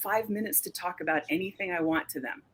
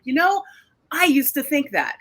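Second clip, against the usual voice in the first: higher, louder retold reply; 7 semitones higher, 5 dB louder than usual. Artist telling a vaccine skeptic she changed her mind. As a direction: pitch it up as a friendly admission. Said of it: "I was like".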